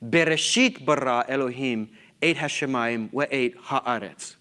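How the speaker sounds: Bereshit given the main emphasis, the rest easing down; stress on Bereshit. Shown as a demonstration. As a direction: recite it leaning on the opening word Bereshit. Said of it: "Where is the emphasis here? You should hear it in my voice".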